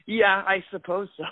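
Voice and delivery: high, wry, noncommittal yeah; unenthused shrug. Retold or imitated. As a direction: shrug it off with a laugh. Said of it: "I'm always kinda like".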